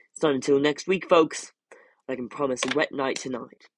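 jolly TV weather presenter; chatty forecast to viewers; weatherman. Acted.

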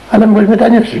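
a jump up in pitch, a lightly voiced demoniac; eerie possessed woman. Possessed woman taunts the monk: high eerie voice. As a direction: pitch the demoniac's taunt up and away from your own voice.

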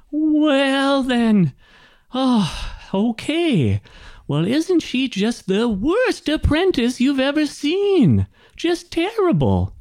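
high-pitched gnome grumbling about his apprentice; oblivious old gnome. Acted. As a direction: complain in a high, put-on gnome voice. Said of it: "and he's like".

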